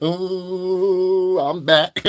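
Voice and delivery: light put-on voice of his father, drawn out; a quick playful take on dad; lightly voiced father; imitating his father. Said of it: "My father was like".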